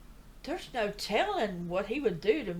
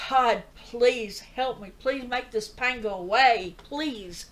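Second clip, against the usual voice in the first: slow, louder pleading cry for help; retold holler to God; 5 dB louder, slower than usual. Man in pain at night hollers to God, slow loud plea. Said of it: "I hollered".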